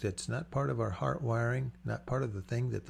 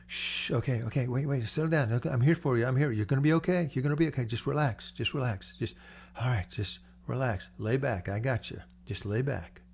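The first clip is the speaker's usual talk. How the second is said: calming lifeguard. Acted. Lifeguard reassuring a drowning victim, gentle soothing. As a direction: talk a panicking swimmer into calm.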